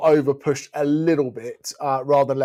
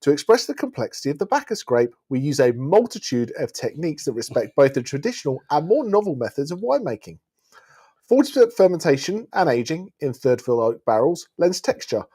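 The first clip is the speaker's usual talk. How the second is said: reading a wine label aloud; measured, descriptive label read; sommelier tasting notes. Acted.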